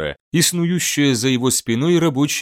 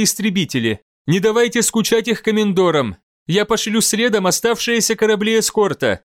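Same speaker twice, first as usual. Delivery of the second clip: higher, brisk voice of command; commanding admiral; 7 semitones higher than usual. Acted. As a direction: give battle orders crisply. Admiral gives battle orders.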